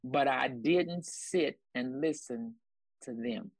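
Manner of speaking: drawn out slowly, each word weighed; slow emphatic repeat. Shown as a demonstration. Repeating the key line slowly for the congregation. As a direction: lean on every word, slowly. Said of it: "I'm gonna say that again".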